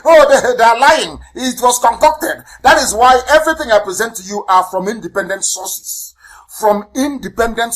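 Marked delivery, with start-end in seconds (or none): 0.0-2.4 higher-pitched mock accusation; mimicked doubters. Broadcaster quoting critics of the reports, mimicking their higher-pitched protest. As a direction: imitate the doubters crying foul, pitched up. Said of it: "that's what they used to say".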